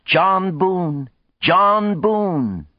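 high-pitched rallying shout, long falling endings; sudden shout. A narrator's reading. Woman raises his hand aloft before the crowd, sudden shout. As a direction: cry the name out to a crowd. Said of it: "suddenly shouted".

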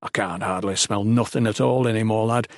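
rustic older companion, lightly voiced; a hint of rough dialect; lightly voiced Salem. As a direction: speak as an uneducated, matey cleric. Voices Salem in narrated story.

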